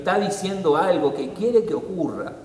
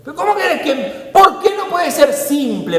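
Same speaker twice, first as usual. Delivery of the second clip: mock frustrated reply; 8 semitones higher, 4 dB louder than usual. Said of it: "le decimos al otro".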